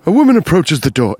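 lightly done sinister crime narrator; true crime narrator. Pretend. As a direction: make it sound like a murder is coming. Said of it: "Now I'm doing Forensic Files".

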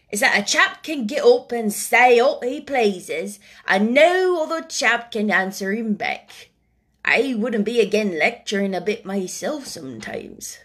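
put-on old gardener's Yorkshire voice; Ben Weatherstaff, Yorkshire old man. Old Ben replying to the boy, Yorkshire voice. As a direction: answer as a plain-spoken old Yorkshireman.

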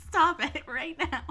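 slow, loud "Stop it right now."; mock stern. Real, not acted. Firmer repeat of the protest.

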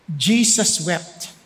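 preacher slows to a hush for Jesus' tears; solemn, hushed. Real, not acted. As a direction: let the two words sink in slowly. Solemn climax of sermon.

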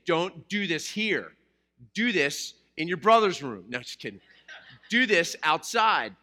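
mock training a puppy, loud and firm; scolding a puppy. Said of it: "and then you say".

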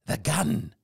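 a touch of alarm; slightly changed voice. A narrator's reading. Captain spotting danger, voice a little changed. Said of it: "his voice was a little changed".

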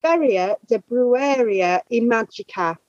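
Spanish words in an English accent; anglicized Spanish pronunciation; American accent Spanish. Real, not acted. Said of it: "excuse my Spanish pronunciation on this one".

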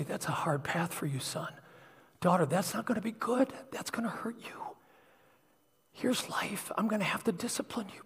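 soft, half-whispered loving correction; gentle discipline. Retold or imitated. Parent gently warning a son or daughter, hushed and tender.

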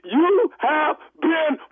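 laughing reveal; prank reveal laughing. Real, not acted. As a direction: crack up as you reveal it.

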